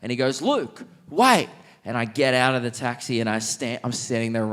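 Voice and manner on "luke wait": imitated calling out. Retelling friend calling him back.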